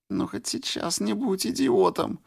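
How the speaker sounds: высоко, в слезах; сквозь слёзы злится; женский голос Флёр. A narrator's reading. Флёр плачет и ругается. (плачущая Флёр)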